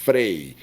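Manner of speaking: "frei" low and held, stress on the root; "frei" set apart with a firm ei glide. Shown as a demonstration. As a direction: lean on "frei" as one strong syllable. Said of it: "Quando nós temos o radical forte".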